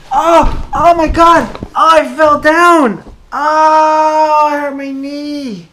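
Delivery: hammed-up cry of pain after a fall; loud, slow, pretend wailing over a knee. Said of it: "I didn't really fall down".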